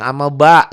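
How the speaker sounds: "amma ba" cut off before the d; the mistaken "ba" that drops the final d; wrong pronunciation. Shown as a demonstration. ("ba" tanpa huruf d, salah)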